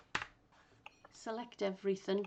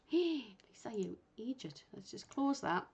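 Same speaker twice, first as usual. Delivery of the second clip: self-scolding whisper; 2 semitones higher than usual. Real, not acted. Scolds herself for a slip.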